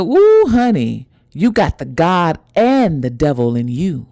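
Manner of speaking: lightly voiced impressed ancestor; a hint of a hoodoo elder; mama spiritualist. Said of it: "She kinda talked like that".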